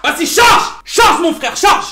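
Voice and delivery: exasperated, high-pitched prodding; impatient urging. Real, not acted. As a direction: yell at it to hurry up. Urges the slow software to load.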